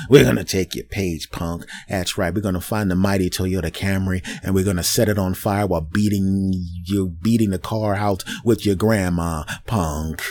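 mock thug voice, low and sneering; hammed-up bully threatening a small guy; Facebook as a thug threatening a user; tough-guy threat. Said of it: "But they went straight to".

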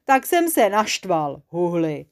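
slow, sulky muffled confession; a hint of grumpy monster; muffled mumbling monster. A narrator's reading. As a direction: lightly mumble as if wrapped in cloth. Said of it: "ozvalo se huhlavě spod týpí".

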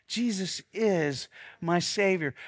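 slow, weighted creed; slow declaration. Shown as a demonstration. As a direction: pastor models the line for the room. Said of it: "Say it again".

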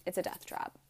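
whispered echo of the verdict; hushed repeat. Retold or imitated. Mechanic repeating the verdict to her, in a whisper. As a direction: drop to a breathless whisper.

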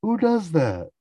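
hammed-up fatherly outrage; mock outrage. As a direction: rant at your son like an outraged father. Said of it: "He's flipping out on George".

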